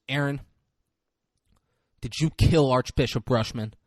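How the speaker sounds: pointed courtroom question, pause after the name; sharp questioning. Retold or imitated. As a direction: fire an accusation at the witness. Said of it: "fucking sharply at him".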